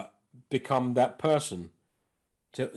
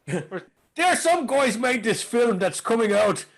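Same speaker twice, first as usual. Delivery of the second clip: mock Irish accent; 6 semitones higher than usual. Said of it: "where they put it on the news".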